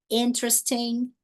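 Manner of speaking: slow "Interesting" said as IN-tres-ting; reduced syllables. Shown as a demonstration. Teacher applying the same rule, reduced "Interesting". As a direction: shorten "Interesting" and stress the first syllable, slowly. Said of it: "A mesma coisa vai acontecer".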